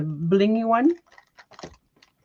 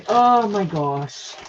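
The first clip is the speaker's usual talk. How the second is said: withering sigh; slower than usual. Real, not acted. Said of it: "That was a heavy sigh".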